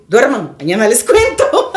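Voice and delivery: amused brush-off breaking into laughter; laughing. Retold or imitated. Storyteller putting off the worried household, laughing. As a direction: let a laugh take over the end.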